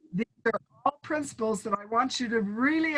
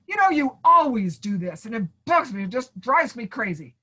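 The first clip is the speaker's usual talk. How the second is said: louder, accusing complaint; 4 dB louder than usual. Pretend. Teacher acting out an accusing partner, louder complaint. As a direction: blame them for always doing it. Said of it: "And you talk like that".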